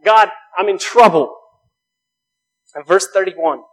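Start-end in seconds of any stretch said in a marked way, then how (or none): 0.0-1.3 loud, high cry for rescue; crying out for help. Retold or imitated. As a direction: call out as if sinking. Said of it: "he cries out".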